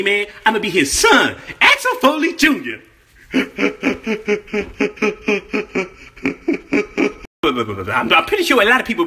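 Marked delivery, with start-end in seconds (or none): 3.3-5.8 Eddie Murphy style wheezing cackle; low breathy cackle; signature cackle. Acted. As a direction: break into that trademark hee-hee cackle. Trademark laugh after joke.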